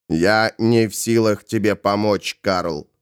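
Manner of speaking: low, composed refusal; restrained low voice; calm Ravenor. Acted. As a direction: say it low and without agitation.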